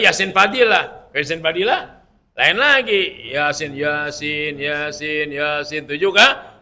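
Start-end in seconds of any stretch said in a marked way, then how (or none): 3.3-5.9 slow repeated recitation. Shown as a demonstration. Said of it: "Nanti ada zalikatul azim".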